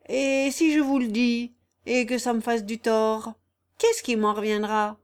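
lightly voiced crafty old countryman; sly vagabond. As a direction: toy with the listeners in a mild rustic character. Raguet, sly vagabond, bargains.

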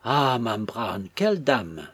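slow, drawn-out, pitiful wail; piteous. A narrator's reading. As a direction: moan it helplessly, falling away. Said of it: "du ton le plus piteux". (ton piteux et geignard)

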